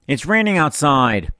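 put-on drawn-out, oddly accented teacher impersonation; Mister Couture. Teacher brushing off a test question, weird-accented imitation. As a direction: stretch it slowly in a weird accent. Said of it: "amazing imitation of Mister Couture".

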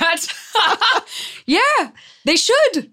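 slow, high laughing words. Real, not acted. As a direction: giggle through the words. Laughing at the story.

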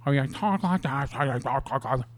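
lightly mocked Italian guy accent; Italian guy impression. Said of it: "the fucking Italian guy with the".

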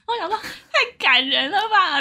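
high, slow, laughing gush. Retold or imitated. Telling a friend about crying at a film, laughing. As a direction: gush with a laugh about how moving it was. Tearful recall, laughing at herself.

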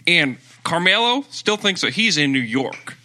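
mock Southern hot-take rant; Southern accent. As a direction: lay down the verdict in a put-on Southern accent. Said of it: "in a Southern accent".

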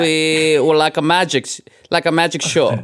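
put-on hammy movie-villain German accent; a music producer's German accent. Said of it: "he sounded like when you do a German accent".

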